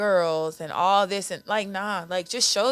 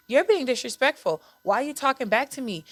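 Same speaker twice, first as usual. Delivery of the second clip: mock scolding parent; 6 semitones higher than usual. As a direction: play the strict parent who won't be questioned. Parent scolding child, acted quote.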